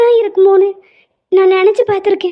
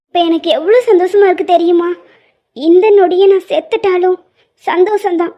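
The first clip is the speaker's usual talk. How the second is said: louder tearful outpouring; emotional, tearful; 4 dB louder than usual. Acted. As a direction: pour it out, overwhelmed with joy and grief.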